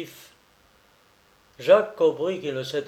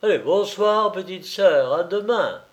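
higher, lightly breezy farewell; almost cheerful; 6 semitones higher, 3 dB louder than usual. A narrator's reading. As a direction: toss off a near-cheery goodnight. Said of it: "il fit presque gaiement".

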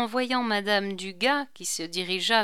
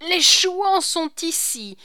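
loud, high-pitched cry; urgent yell of warning; alarmed shout; 10 semitones higher, 8 dB louder than usual. A narrator's reading. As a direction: shout it to rouse a sleeper. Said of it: "cria Corentin dans l'oreille de Hulot".

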